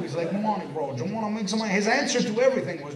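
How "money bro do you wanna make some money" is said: a hint of a tough Scarface hustler; lightly done gangster pitch; Tony Montana-style hustler. A hint of a hustler pushing money on a kid. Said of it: "talk like that was Tony Montana".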